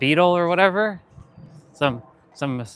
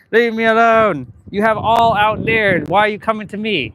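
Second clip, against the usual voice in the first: laughing whine; 7 semitones higher, 5 dB louder than usual. Real, not acted. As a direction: drag it out, laughing and pleading.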